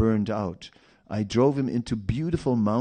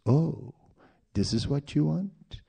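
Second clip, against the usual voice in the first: tempting Maya. Acted. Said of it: "And Maya knows".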